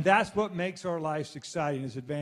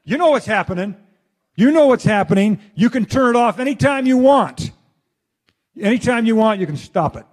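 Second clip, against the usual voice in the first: urgent inner voice; 4 semitones higher, 9 dB louder than usual. Retold or imitated. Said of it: "senses it".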